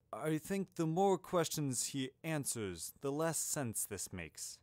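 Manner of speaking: slow, lightly voiced old wizard; a hint of bemused headmaster; Dumbledore. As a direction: puzzle it out slowly. Narrator voices puzzled old headmaster.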